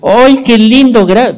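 put-on high, loud, slow gushing praise for a toddler; mother's squeal of delight, drawn out. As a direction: coo at the child like an overjoyed mom. Mother praising her small child.

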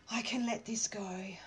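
soft affirmation voiced. Shown as a demonstration. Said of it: "a bit of a release".

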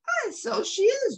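high Scots agreement; Scottish terrier. Acted. Jock agrees with Trusty, Scottish.

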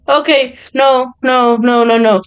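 rising panic to a shouted no; scared gamer yelling no at the screen; panicked no. Real, not acted. Panicking as monster comes.

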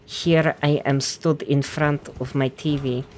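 rough Icelandic lilt with rolled R's; Icelandic accent attempt. Shown as a demonstration. Gamer demonstrating the accent, Icelandic lilt. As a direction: put on a lightly lilting Icelandic accent. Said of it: "instead they do".

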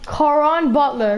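"Caron Butler" drawn out slowly, relishing each syllable; savoring the name. Real, not acted. Pack opener savoring the player he pulled, slow and relishing. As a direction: stretch "Caron Butler" out like a prize. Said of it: "Yeah, I want Caron Butler".

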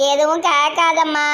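slow, crying plea; tearful plea. Acted. Crying daughter to her grandmother, slow tearful plea. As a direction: beg her to stop asking, through tears.

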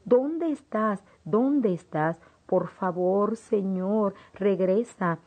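lost in the dark, calling for Jesus, mild desperate cry; mild frantic cry. Retold or imitated. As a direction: call out to Jesus in a lightly voiced panic. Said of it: "Le grité a Jesús".

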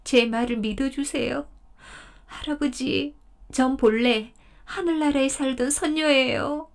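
high, imploring deer voice, begging grandfather; pleading deer. Acted. 덫에 걸린 사슴이 할아버지에게 애원하듯. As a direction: beg him to let you go.

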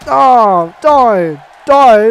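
shouting at the screen. Real, not acted. Yelling at the wrestler on screen.

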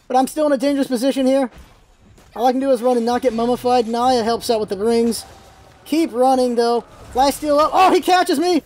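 normal talking voice

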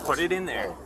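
firm order rising to a shout; calm turning angry. Real, not acted. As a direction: escalate from firm to yelling. Officer escalating phone order.

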